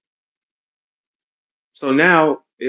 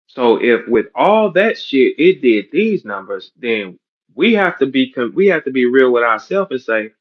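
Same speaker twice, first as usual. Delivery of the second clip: slow emphatic; 4 dB louder than usual. Real, not acted. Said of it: "slow emphatic argument".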